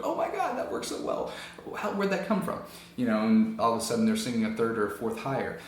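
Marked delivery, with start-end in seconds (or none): 0.0-2.6 high astonished exclaim; amazed student. Retold or imitated. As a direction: gasp in disbelief. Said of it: "They're like".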